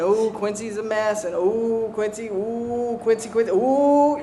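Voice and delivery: a hushed, teasing gossip's coo; gossiping mockery. Gossips behind her back, hushed teasing coo. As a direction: mimic the whispering gossips mocking Quincy. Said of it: "You start to talk behind my back".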